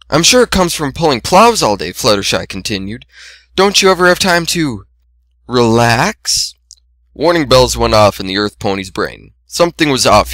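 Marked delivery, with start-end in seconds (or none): 0.1-1.9 higher gentle shy voice; timid Fluttershy. A narrator's reading. 3.5-6.5 relax drawn out with a rising tune; stress on relax. A narrator's reading. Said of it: "subtle emphasis on relax".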